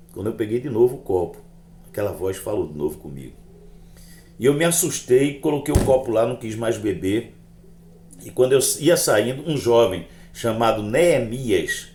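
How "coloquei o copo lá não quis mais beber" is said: ordinary delivery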